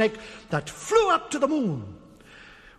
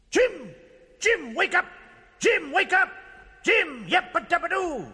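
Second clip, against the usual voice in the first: high-pitched urgent call; calling to wake; 7 semitones higher than usual. A narrator's reading. Mouse to sleeping giant eagle, calling high.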